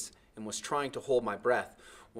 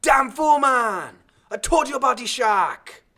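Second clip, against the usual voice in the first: high, loud angry yell; furious yell; 14 dB louder, slower than usual. A narrator's reading. Timothy scolds the boy after the rescue, furious yell. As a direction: yell at him in a rage. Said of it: "He yelled".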